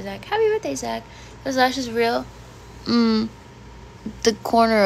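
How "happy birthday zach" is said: bright, much higher sing-song happy birthday; high birthday greeting. Real, not acted. Greeting Zach on a chat request, voice pitched way up. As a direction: chirp it up high for the viewer. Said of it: "Can you say happy birthday".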